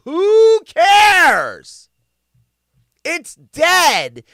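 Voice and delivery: loud, high, exasperated yell; who cares, at full volume; exasperated shout. Real, not acted. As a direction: shout it like you're fed up with everyone. Ranting at online critics.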